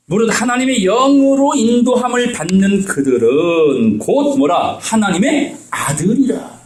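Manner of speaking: slow, lifted reading of the verse; scripture reading. Acted. Preacher reading Romans to the congregation, slow and solemn. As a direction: lay out each word slowly.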